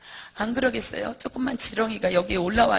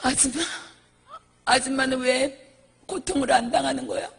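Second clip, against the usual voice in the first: imitated accusation; 2 semitones higher than usual. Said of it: "사람들이 얘기를 해요".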